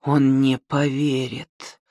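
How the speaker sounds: хрипло, сдавленно; хрипеть сдавленным горлом; hoarse. Acted. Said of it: "прохрипела она". (хриплым голосом)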